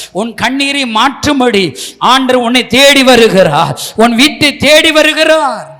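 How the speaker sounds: building sermon. Acted. Preacher calling out to listeners at home, building up. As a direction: start gentle, then swell into a loud call.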